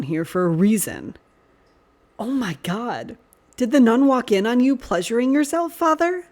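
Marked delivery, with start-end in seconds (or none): 2.2-6.3 teasing. A narrator's reading. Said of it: "Sirius ribbed".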